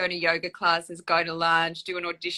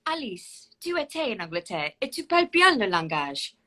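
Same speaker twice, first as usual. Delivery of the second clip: lightly voiced princess speaking French; a hint of the French princess questioning her maid; Princess Catherine in French. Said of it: "the scene went like this".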